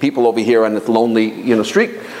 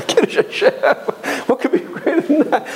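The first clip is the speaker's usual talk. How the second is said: laughing; 13 semitones higher than usual. Real, not acted. Delighted fantasy of martyrdom.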